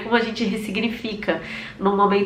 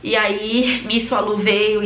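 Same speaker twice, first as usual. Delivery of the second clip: ordinary delivery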